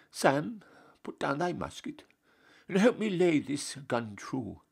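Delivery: a lofty, scandalised general handing down punishment; pompous Duke. Acted. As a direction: play the Duke shocked and stern. Duke asks Sam for help.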